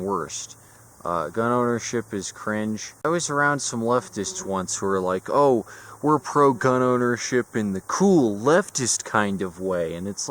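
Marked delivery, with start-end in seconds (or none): 5.3-9.9 mocking imitation. Mocking quote of leftists.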